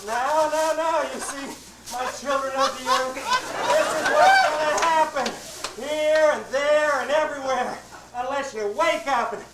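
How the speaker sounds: warm serene goddess voice. Acted. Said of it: "she comes and she says".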